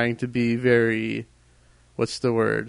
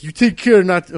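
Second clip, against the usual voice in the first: put-on a second failed try at the narrator's British accent, louder; another wrong accent; 4 semitones higher, 5 dB louder than usual. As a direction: miss the narrator's accent again. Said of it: "that's the wrong one too".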